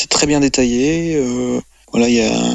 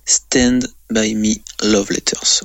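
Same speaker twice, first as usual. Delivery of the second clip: slow, careful English accent on the title, Stand as /stɛnd/; a host proudly repeating the title in his English accent; mock English accent; slower than usual. Shown as a demonstration. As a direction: repeat Stand By Me Love Letters slowly in a put-on English accent. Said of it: "avec mon super accent anglais".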